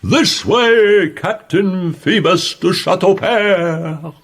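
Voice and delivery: loud, high call down the street; shouting. A narrator's reading. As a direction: call out to the captain.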